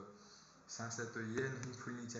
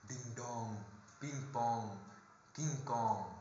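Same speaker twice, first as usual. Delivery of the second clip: deepened voice. Shown as a demonstration. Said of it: "खुद deep करके बोलूँगा".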